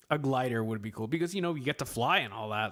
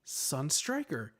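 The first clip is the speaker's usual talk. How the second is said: trying the name out; 11 semitones higher than usual. Retold or imitated. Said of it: "And I was like".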